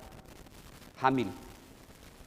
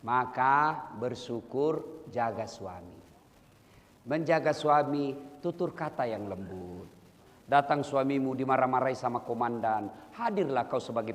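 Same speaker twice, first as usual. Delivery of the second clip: gentle advice; 4 semitones lower than usual. Real, not acted. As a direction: ease down into tender counsel.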